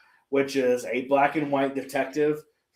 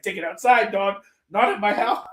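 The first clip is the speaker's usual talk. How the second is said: higher-pitched mock-tough order; gangster aunt; 5 semitones higher than usual. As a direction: play a tough aunt throwing troublemakers out. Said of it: "Aunt May's just fucking gangster".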